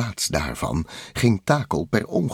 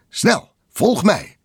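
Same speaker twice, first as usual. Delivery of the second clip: high, loud, drawn-out command; urgent call; 12 semitones higher, 5 dB louder, slower than usual. A narrator's reading. Bliksem calling Takel to follow, high urgent shout. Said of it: "riep Bliksem".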